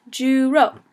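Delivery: "Juro" as Jew plus row; pronunciation model. Shown as a demonstration. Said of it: "I would pronounce it as Jew".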